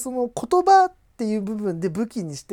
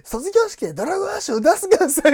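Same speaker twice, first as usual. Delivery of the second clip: pleading yankee; 10 semitones higher, 3 dB louder, faster than usual. Retold or imitated. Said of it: "ヤンキーが".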